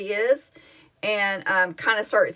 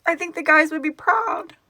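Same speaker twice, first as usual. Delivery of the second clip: higher, voice breaking with tears; crying happy tears; 7 semitones higher than usual. Real, not acted. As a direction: choke out the words through happy tears. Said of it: "Yeah, happy tears".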